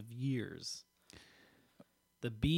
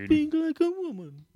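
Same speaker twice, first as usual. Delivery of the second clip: high, loud mock British lady; hammed-up British woman in falsetto; British woman accent; 13 semitones higher, 6 dB louder than usual. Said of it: "a woman with a British accent".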